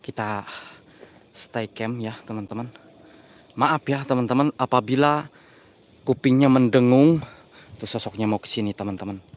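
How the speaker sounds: suara rendah dan pelan, nyaris berbisik; bisik-bisik tegang. Real, not acted. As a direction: pelankan suara agar sosoknya tidak dengar. Berbisik karena sosok dekat. (bisikan tegang ke penonton)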